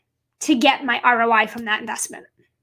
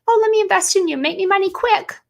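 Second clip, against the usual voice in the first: much higher, airy mock voice of a get-rich-quick buyer; mocking wrong mentality; 7 semitones higher than usual. Mocking clients who want quick money, high mock voice. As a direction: send up the wrong mindset. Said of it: "I'm not doing it for, like".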